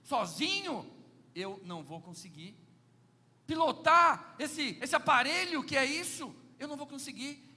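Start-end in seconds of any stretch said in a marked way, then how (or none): 3.5-7.5 louder, slowly stretched words; emphatic preaching. Real, not acted. Preacher stressing to the church, loud and slow. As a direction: drive the point home to the pews.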